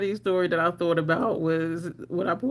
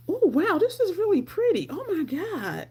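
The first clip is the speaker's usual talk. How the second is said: high, delighted oohing over a gift; thrilled gasp; 10 semitones higher than usual. Retold or imitated. Self unwrapping gifts, high delighted gushing. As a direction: gush over a pretty present.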